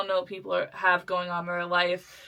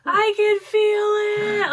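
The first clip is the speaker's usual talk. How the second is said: high, slow anguished cry; crying out in pain; 13 semitones higher, 6 dB louder, much slower than usual. Retold or imitated. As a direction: wail it out in pain. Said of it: "screaming in pain at this point".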